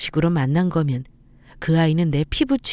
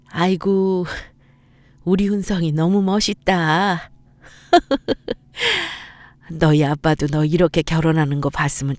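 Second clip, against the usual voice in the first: a touch of tears in a proud mother's toast; moved mother missing her late husband; lightly voiced old mother, wistful; proud mother at wedding. Mother speaks at son's wedding.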